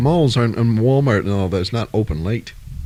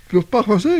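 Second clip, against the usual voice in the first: French; 8 semitones higher than usual. Retold or imitated. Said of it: "she's like".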